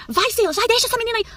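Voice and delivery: high yelled command; yelling at the gate. Retold or imitated. Mother yelling at the gate for her son to go, high yelling. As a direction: shout at him to leave her. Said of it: "começou a gritar lá no portão".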